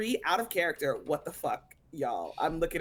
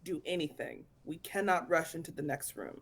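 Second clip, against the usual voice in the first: put-on Irish accent; 4 dB quieter than usual. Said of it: "why the Irish accent?".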